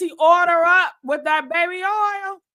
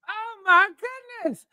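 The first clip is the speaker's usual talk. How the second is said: mock anguish; 6 semitones higher than usual. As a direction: wail it in hammed-up distress. Comic flashback, high cry.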